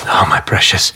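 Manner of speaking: low, breathy endearment; tender. Acted. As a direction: murmur it lovingly to a child. Father comforts his worried daughter.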